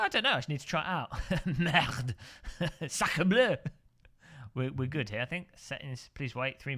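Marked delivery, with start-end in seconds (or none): 1.6-3.5 mock French exclamation. Joking French swearing.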